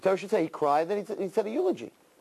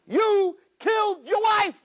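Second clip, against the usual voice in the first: the Satan taunting, high and slow; high mocking accuser; 5 dB louder, slower than usual. Satan taunting Avraham about his wife, high and mocking. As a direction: sneer it out like a devil. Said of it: "What did he say?".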